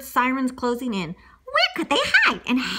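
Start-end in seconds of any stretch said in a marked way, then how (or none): 1.4-2.8 high, loud, half-laughing shout; laughing panic. Acted. Teller dramatizing the chase as sirens close in, high laughing shout. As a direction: cry it out with mock alarm.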